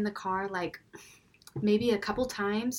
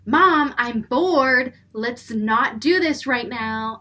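louder, drawn-out bored whine; whining kid; 5 semitones higher, 11 dB louder, slower than usual. Retold or imitated. Scene: bored son whining at mom chatting with neighbor. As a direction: whine like a bored five-year-old.

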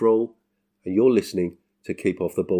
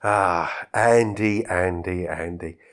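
a weary tutting Andy, Andy, Andy; mock sigh; 2 semitones lower, slower than usual. Real, not acted. The speaker teasing Andy, names fading with mock weariness.

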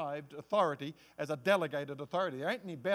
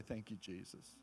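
much softer, lower and drowsy; sleepy thanks; 10 semitones lower, 16 dB quieter than usual. Pretend. Believer rolling over to sleep, drowsy quiet thanks. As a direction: mumble it as you drift off. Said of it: "roll over and go to sleep and say".

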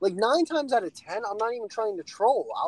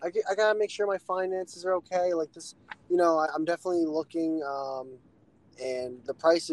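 polite excuse; 4 semitones lower than usual. Retold or imitated. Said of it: "I kinda would've been like".

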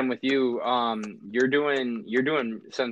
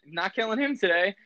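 a hint of a lofty God voice, higher and laughing; imitating God; 10 semitones higher than usual. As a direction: lightly play God sparing him, chuckling. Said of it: "He's like".

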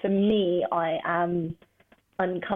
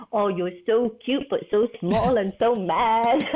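sweet cooing voice, slowing on the last words; cooing at a dog; 3 semitones higher, 3 dB louder, slower than usual. Retold or imitated. Vet cooing at a snappy little dog, sweet and slow. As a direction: coo at a tiny angry dog like it's a baby.

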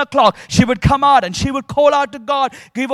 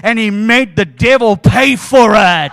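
shouting; 7 dB louder than usual. Retold or imitated. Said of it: "she shouted even louder".

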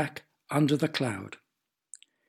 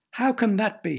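snorted; 7 semitones higher than usual. A narrator's reading. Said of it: "he snorted".

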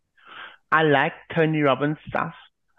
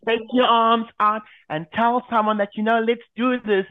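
higher pitched nasal American woman; 7 semitones higher than usual. Retold or imitated. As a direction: gush it out like an eager American host. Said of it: "that high-pitched nasal voice".

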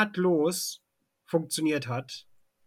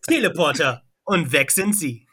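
chipper 1950s ad; 4 dB louder than usual. Pretend.

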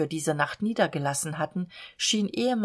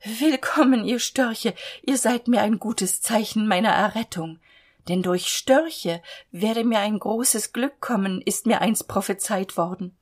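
joyful calling out; 3 semitones higher than usual. Acted. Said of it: "rief sie".

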